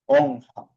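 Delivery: "honja" with a nasal N then Spanish jota. Shown as a demonstration. Teacher showing R after a consonant, J-sound demo. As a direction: say "honja" in two syllables, second starting on throaty J. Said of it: "se hace sonido de J en español".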